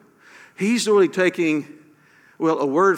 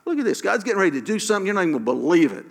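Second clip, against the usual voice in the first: fast, pitch jumping up, mock hype; mock inspirational speaker rush; hyped-up motivational; 3 semitones higher, much faster than usual. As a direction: rattle it off like a pep talk. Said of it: "just spoken like that".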